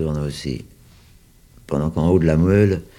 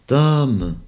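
distant call; 8 semitones higher, 5 dB louder than usual. Acted. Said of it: "la voix lointaine d'un enfant".

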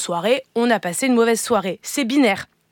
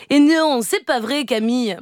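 imitating Eva. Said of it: "j'ai essayé de vous imiter, Eva".

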